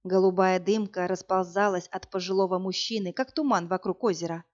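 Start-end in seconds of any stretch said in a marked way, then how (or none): none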